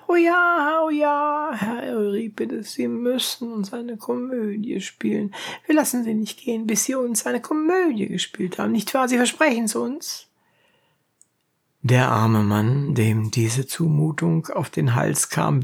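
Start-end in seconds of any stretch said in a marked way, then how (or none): 0.1-10.3 eager shouting. A narrator's reading. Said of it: "schrien alle auf einmal".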